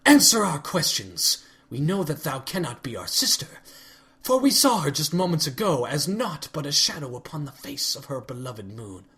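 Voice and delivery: royal goddess voice, archaic and accusing; a lightly voiced stern princess, cold and suspicious; regal accusing Celestia. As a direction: condemn an impostor from the throne. Celestia demands answers.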